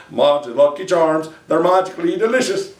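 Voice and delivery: light Irish leprechaun voice from the cereal ad; hint of a cartoon Irish leprechaun pitch; Lucky Charms leprechaun. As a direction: lilt it like a mild Irish leprechaun mascot. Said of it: "I don't even know why I did that one".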